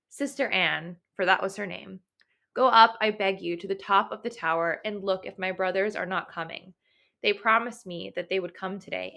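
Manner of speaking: steady read-aloud storytelling voice; story reading. Acted. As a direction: read the old tale clearly for the class. Reads the Bluebeard myth aloud.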